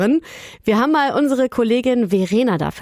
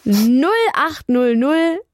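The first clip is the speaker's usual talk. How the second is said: slow and clear; slower than usual. Real, not acted. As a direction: spell out each digit slowly. Reads out the phone number.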